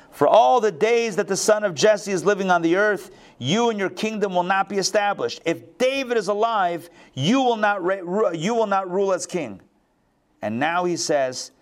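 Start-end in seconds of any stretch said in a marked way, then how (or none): 0.1-9.6 high-pitched, mildly angry father; stern royal warning. Acted. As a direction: lecture a son as an indignant king, pitched up. Voicing Saul's warning to son.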